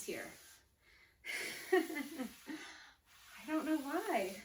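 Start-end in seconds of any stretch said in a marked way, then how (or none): 1.7-4.3 slow, laughing through the words. Real, not acted. Trainer to class about a broken stopwatch, laughing slowly. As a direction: shrug it off with a laugh, drawn out.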